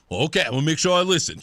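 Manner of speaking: quick, hammed-up Italian-guy accent; horrible Italian accent. Host imitating John promising to listen, bad Italian accent. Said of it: "I'm doing a very horrible Italian accent".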